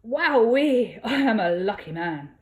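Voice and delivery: thrilled at how she looks; delighted. A narrator's reading. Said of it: "Fiero gasped and spun her around".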